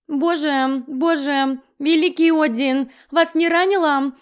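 frantic organiser fussing over the bride; loud fussing. Acted. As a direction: fuss and wail about it loudly. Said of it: "загласил".

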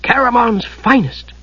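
slow, high-pitched proud announcement. A narrator's reading. Kender presents the silver flask, proudly. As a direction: show it off, drawing out the words. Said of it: "which he exhibited proudly".

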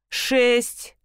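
indifferent repeat. Acted. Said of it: "равнодушно повторила я".

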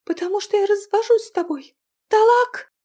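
high, loud cry of Талак; divorce cry. Acted. Girl shouting her divorce to her husband.

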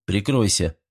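usual speaking voice

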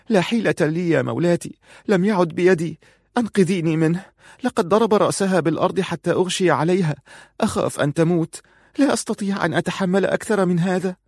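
high, weeping plea; tearful pleading. Acted. Aziza at Farun's feet, pleading in high tearful voice. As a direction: beg through heavy tears. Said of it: "كانت تبكي بكاء غزيرا".

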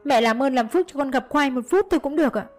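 high-pitched, insistent begging; desperate pleading. A narrator's reading. Daughter-in-law begs to see her son for a minute, pleading. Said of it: "van xin mẹ".

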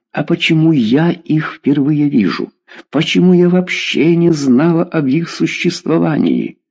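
high, aggrieved questioning; indignant mother. Acted. Mother demanding why she never met these friends, indignant. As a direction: press the questions in rising reproach.

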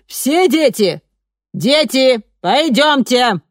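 high, loud teacher's call; rounding up the kids like a nursery teacher; kindergarten teacher voice. A narrator's reading. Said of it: "тоном воспитательницы закричала она".

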